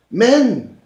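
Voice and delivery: high, loud declaiming; mock-pompous man. Imagining the man who walked out, mock-pompous. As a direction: proclaim it like a stern decree. Voicing the man's indignant thought.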